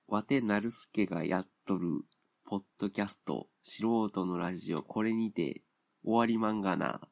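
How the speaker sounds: hammed-up slow Osaka-dialect sign-off ending on まんがな; mock Kansai dialect. Host signing off his amateur radio podcast in mock Osaka dialect. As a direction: play an old-style Osaka merchant, lightly. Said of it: "関西弁で喋るって言ってるのも".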